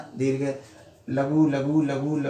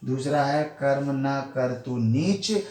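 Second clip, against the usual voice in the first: slow, measured verse recital with a pause after each half-line; poem recitation; slower than usual. Shown as a demonstration. Teacher reciting a soratha to students, slow measured recital. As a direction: lay out each line of the couplet slowly.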